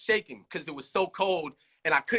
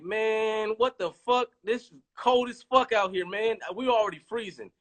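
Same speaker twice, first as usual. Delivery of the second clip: higher, imitating his own griping; retelling a cold, annoyed rant to the director; mock exasperated complaint; 8 semitones higher than usual. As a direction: gripe like you're freezing out there.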